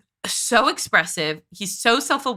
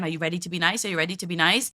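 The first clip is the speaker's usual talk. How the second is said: quieter, lower mimicked parental refrain; repeated catchphrase; 4 semitones lower, 4 dB quieter, faster than usual. Commentator mimicking a mother repeating her catchphrase, mock refrain. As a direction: recite it like a parent's stock phrase. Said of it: "these catchphrases ... over and over again".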